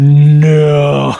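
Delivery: long, loud drawn-out no; a shouted, stretched groan of no; loud protest. Real, not acted. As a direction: cry out in mock-appalled protest. Horrified reaction to innuendo.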